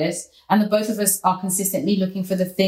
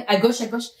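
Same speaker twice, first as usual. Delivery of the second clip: French directions. Retold or imitated. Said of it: "he's like".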